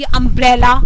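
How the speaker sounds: "अम्ब्रेला" with quick "अम", stronger "ब्रेला"; loud, weighted "ब्रेला" in "अम्ब्रेला"; word stress demo. Shown as a demonstration. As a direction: hurry the first syllable of "अम्ब्रेला", press on "ब्रेला". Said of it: "ब्रेला को थोड़ा मैं stress ज़्यादा देकर".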